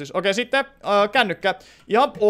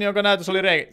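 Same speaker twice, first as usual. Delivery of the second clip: ordinary talk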